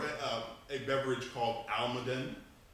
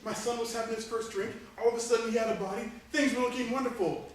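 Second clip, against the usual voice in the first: grieving father; 10 semitones higher than usual. Acted. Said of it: "He's like".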